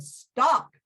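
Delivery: commanding stop. Acted. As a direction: order the tree to halt. Owl commands the tree.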